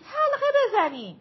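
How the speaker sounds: full loud repeat of «حلقه بزنید» dropping at the end. A narrator's reading. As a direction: push the call harder the second time. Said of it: "میرا داد زد".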